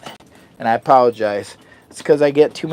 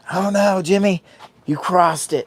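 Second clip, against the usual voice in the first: mock alarm; 6 semitones higher than usual. Voicing the speaker mock alarmed.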